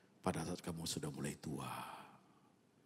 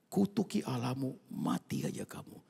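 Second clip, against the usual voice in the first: scornful wife; 5 semitones higher, 4 dB louder than usual. Retold or imitated. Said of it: "Istri yang ngomong begini".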